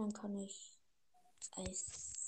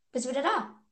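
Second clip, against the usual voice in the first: scared horror game streamer; 5 semitones higher, 7 dB louder than usual. Real, not acted.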